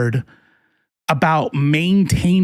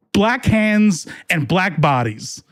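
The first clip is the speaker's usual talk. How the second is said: ordinary delivery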